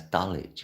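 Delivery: Dulwich as DULL-itch, silent w; local pronunciation. Shown as a demonstration. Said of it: "That's how we say it".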